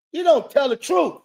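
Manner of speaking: real angry outburst; angry shout. Real, not acted. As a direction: shout the accusation. Angry rant at host.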